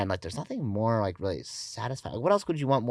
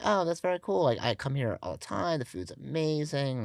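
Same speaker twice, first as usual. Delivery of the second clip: higher-pitched, gushing compliment; retold enthusiastic praise; 5 semitones higher than usual. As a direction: re-enact being impressed, pitched up. Retelling own praise to the owner.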